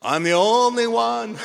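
high, loud Yiddish-flavored kvetch; Jewish whine. Acted. Elijah complains to God in a hammy Jewish accent. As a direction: kvetch it like an old Jewish man. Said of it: "So you see again".

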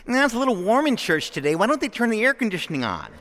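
a touch of a fussy churchgoer grumbling; lightly voiced parishioner whining about the church heat; mock whiny complaint.

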